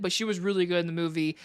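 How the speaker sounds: ordinary delivery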